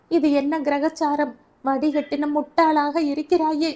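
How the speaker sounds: loud, high, furious berating of her daughter; angry scolding. A narrator's reading. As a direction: rage at her over the lost necklace. Grandmother berates daughter over necklace.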